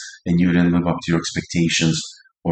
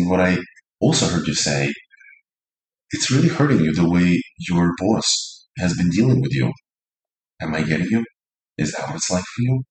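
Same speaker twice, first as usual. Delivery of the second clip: soothing and accepting. Shown as a demonstration. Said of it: "meant to be soothing".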